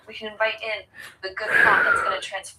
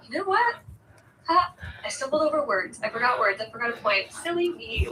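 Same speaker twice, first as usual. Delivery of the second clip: mock-silly self-talk, pitched up; playful self-teasing; 3 semitones higher than usual. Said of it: "match it with a bit of funniness".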